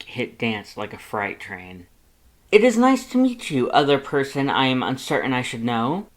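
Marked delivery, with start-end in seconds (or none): 2.5-6.1 much higher, loud and booming skeleton voice; proud, cheery, boastful and loud; good-natured Papyrus. Acted. Papyrus introduces himself to Lust, booming and cheerful. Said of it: "Papyrus replied good-naturedly".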